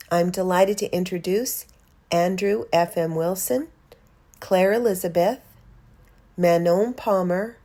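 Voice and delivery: measured, clearly phrased welcome read; podcast introduction. Real, not acted. Host welcomes listeners to a special poetry episode, scripted introduction read. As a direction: present each guest with deliberate pauses.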